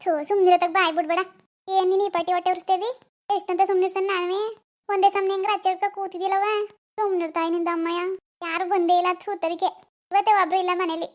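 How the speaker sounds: harried, fed-up complaint; exasperated scolding. Acted. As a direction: scold the crying baby, at your wits' end. Losing patience with crying baby.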